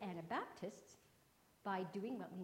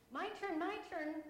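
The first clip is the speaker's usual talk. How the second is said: put-on higher, eager call of a child wanting a turn; 9 semitones higher, 7 dB louder, slower than usual. Kimberly calling to the teacher for her turn, eager and higher. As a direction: bounce it out, begging for a turn. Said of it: "called Kimberly".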